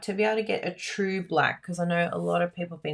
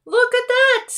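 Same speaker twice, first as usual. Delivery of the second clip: delighted; 8 dB louder than usual. Real, not acted. Admiring result in delight.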